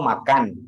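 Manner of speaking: "makan" ending in a clear n; correct final n. Shown as a demonstration. Teacher correcting a foreign friend, clear final n. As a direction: finish "makan" on n, not m. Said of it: "Saya bilang".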